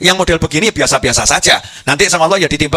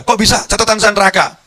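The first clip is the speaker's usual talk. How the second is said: higher, astonished disbelief; surprised sinner; 6 semitones higher than usual. Acted. A sinner told he goes to heaven, astonished. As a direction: sound stunned at the good news.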